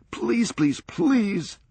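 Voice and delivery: high, breathless begging as he tears it open; can't wait to see what's inside; eager pleading. Acted. Tearing at the tape eagerly.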